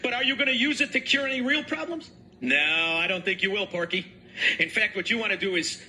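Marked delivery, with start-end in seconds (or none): 0.0-4.1 high, sneering insults; mock the governor; scornful ridicule; insulting mockery. Real, not acted.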